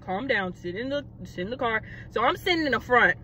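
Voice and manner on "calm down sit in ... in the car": low, soft imitation of an officer; calming officer. Officer to panicking woman, low and calming. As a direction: quietly talk her down, pitched low.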